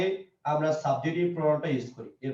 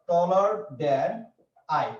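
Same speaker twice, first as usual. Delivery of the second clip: taller than stretched out very slowly; slow spelled-out example; much slower than usual. Shown as a demonstration. Teacher slowly dictating taller than to students. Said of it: "যেমন আমরা কি বলি".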